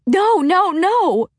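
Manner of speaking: high sobbing shout; shouting through tears. A narrator's reading. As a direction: scream it while crying. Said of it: "Freya kept shouting through her tears".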